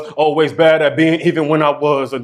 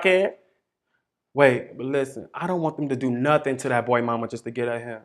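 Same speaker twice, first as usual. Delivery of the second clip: gossiping neighbors; 4 semitones higher than usual. Acted. Voiced neighborhood gossip voices.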